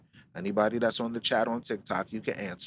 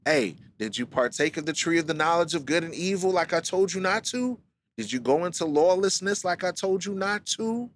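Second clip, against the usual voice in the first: higher, fast reproach of the Most High; questioning God; 5 semitones higher than usual. Pretend. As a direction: call Adam out like a disappointed father. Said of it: "The Most High said".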